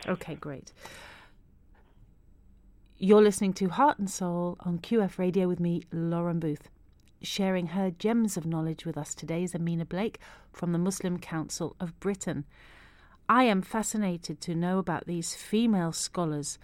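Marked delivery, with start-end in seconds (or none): 3.0-12.4 measured on-air host introduction; radio presenter link. Real, not acted. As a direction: reintroduce the show and guest to listeners. Radio host reintroduces show and guest.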